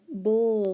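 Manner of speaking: "bull" drawn out as an isolated syllable; final-syllable sound. Shown as a demonstration. Teacher quizzing pupils on spelling sounds, isolated syllable. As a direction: stretch "bull" as the ending sound buhl. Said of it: "the bull sound".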